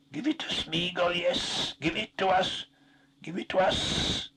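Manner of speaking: high, slow pleading whine; wretched creature voice. A narrator's reading. Gollum whines at his master for the ring, high. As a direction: beg for it like a starved creature.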